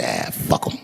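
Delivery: low laughing brush-off; low laughing give-up on the fleeing kid; laughing dismissal. Retold or imitated. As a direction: shrug it off through a laugh. Giving up the chase, laughing.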